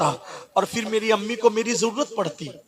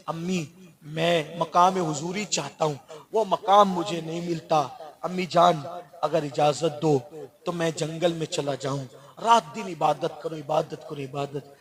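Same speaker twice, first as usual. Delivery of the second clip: pleading son; 3 semitones lower, 6 dB quieter than usual. Retold or imitated. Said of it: "माँ के कदम पकड़ कहते हैं".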